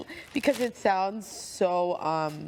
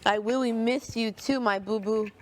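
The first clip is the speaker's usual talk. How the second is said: put-on baby talk. Mimicking couple's baby talk.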